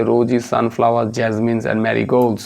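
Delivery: drawn-out answer option; teacher reading options aloud; very slow reading. Acted. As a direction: read each option out slowly.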